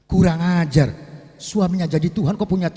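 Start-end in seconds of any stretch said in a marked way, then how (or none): 0.1-0.9 louder angry curse from Pharaoh. Acted. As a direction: spit the insult out in rage. Pharaoh finds Asia praying.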